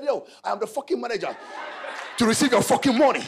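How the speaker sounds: laughing through the boast; laughing manager. Retold or imitated. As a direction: chuckle out the manager's reply. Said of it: "He said".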